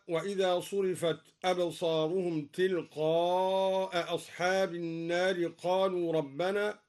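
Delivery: measured recitation, النار with open aa, hamza sounded after تلقاء; long aa then glottal stop in تلقاء; both hamzas kept. Shown as a demonstration. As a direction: recite تلقاء أصحاب as tilqaa'a as-haab. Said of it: "قرأ الدوري بإسقاط الهمزة".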